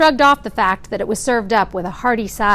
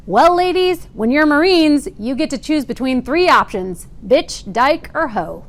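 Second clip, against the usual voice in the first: drill sergeant; 4 semitones higher than usual. Retold or imitated. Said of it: "our drill sergeant could still roam the barracks, R. Lee Ermey style".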